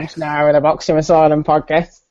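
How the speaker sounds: lightly voiced pompous podcast host greeting; mock Steve Burns intro. Host parodies rival taking over the podcast, mock announcer. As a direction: ham up a rival's show opening. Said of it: "be the new host".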